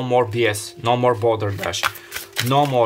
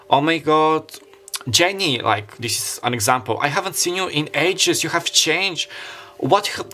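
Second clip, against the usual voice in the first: excited reunion; 4 semitones higher than usual. Pretend. Imagined reunion with childhood friend.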